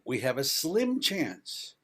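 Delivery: slim said slowly and leaned on; stress on slim. Real, not acted. Warning the audience about the climate odds, leaning on slim. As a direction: hit the word slim to warn them. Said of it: "And I emphasize the word slim".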